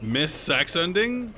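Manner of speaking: high, loud, slow shocked yell; stretched loud disbelieving cry; shocked outcry. Real, not acted. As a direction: wail it in disbelief. Reacting to missed ending in game.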